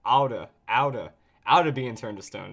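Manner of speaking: "oughta" in a lightly drawled southern twang. Shown as a demonstration. Player mocks the game's dialogue, southern twang on "oughta". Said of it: "throw in a little bit of twang".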